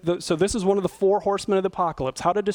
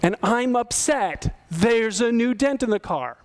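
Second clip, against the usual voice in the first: calm I-statement; 2 semitones higher, slower than usual. Shown as a demonstration. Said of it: "It's like".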